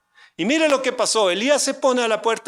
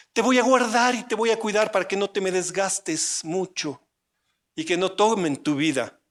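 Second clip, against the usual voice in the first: mock coddling; 2 semitones higher than usual. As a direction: coo over him like a pampered child. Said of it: "Nos diga". (Dios imaginado consuela a Elías con ternura fingida)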